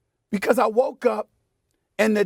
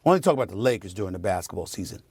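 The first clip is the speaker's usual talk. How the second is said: mocking critics; 12 semitones lower, 4 dB quieter, faster than usual. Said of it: "people acting like".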